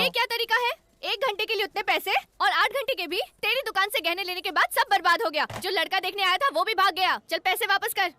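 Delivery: insistent, scolding demand; yelling complaint. Acted. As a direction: lay into the shopkeeper. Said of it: "इतना चिल्ला क्यों रही हो?".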